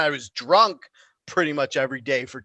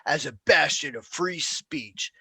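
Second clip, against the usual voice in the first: slow, softer, lightly pompous librarian voice; a touch of prim official, dragged out slowly; mock pompous librarian; 6 dB quieter, slower than usual. Mocking the library's pompous defense.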